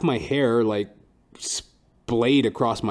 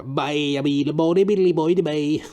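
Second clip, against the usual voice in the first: mock Caribbean-Newfoundland lilt, higher pitched; Trinidadian then Newfie accent; 5 semitones higher, 5 dB louder than usual. Shown as a demonstration. Comic doing a Trinidadian accent, playful. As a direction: sing out a silly island accent. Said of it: "you know, the Trinidadian, uh, Newfie".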